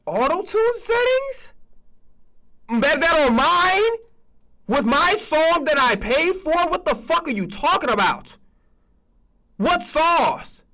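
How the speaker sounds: high, slow, stunned disbelief; incredulous disbelief. Retold or imitated. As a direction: stretch each word out like you can't believe what you just heard. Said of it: "I'm like".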